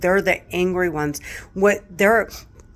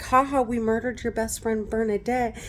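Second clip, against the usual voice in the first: 1 sneering taunt; 4 semitones higher than usual. Retold or imitated.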